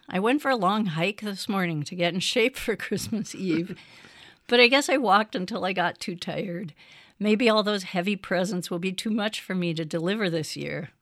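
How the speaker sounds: Santa chuckling through the words; tired but jolly old Santa; kind gentle laugh. Acted. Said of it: "said Santa".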